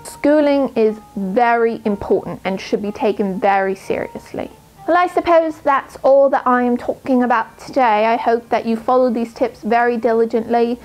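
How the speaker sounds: clumsy put-on British accent, uneven throughout; earnest study-tips talk in an amateur British accent; bad British accent. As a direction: play a bookish schoolgirl in a weak British accent. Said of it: "my British accent was horrendous".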